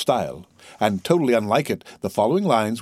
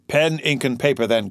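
raised, calling out an order; loud call; 4 semitones higher than usual. A narrator's reading. Fernand ordering writing things from the waiter, calling out. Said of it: "called Fernand loudly".

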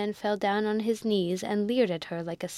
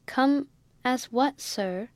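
gasped out; 4 semitones higher, slower than usual. Acted. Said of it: "Rebecca gasped out".

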